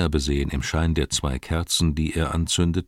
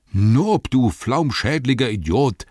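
loud, much higher scolding; scolding shout; 6 semitones higher, 5 dB louder, slower than usual. Acted. Innkeeper scolding his servant Nob, loud shout. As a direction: yell at the servant. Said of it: "rief er".

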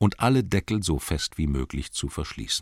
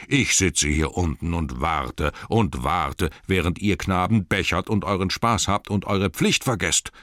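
grumbling cellarman. Acted. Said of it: "brummte er".

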